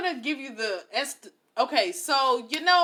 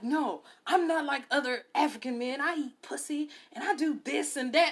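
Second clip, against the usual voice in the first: imitating an indignant boaster; mock-offended bragging; offended man; 3 semitones higher than usual. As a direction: protest proudly in a put-on man's voice. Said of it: "he was highly offended that I said that".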